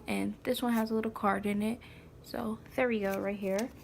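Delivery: soft whisper; whispered aside. Real, not acted. Mom whispering to herself while opening the envelope. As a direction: whisper it while fiddling with the card.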